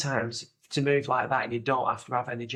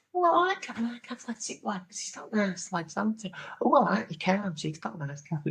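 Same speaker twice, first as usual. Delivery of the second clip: imitated dating-show contestant; 8 semitones higher than usual. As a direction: mimic her approving once-over. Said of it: "And she went".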